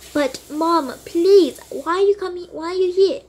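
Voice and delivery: high pleading whine; pleading daughter. Acted. Daughter begging mom who came to fetch her. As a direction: beg her not to be here.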